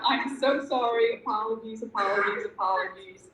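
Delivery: contrite apology. Retold or imitated. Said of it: "I was like bipolar".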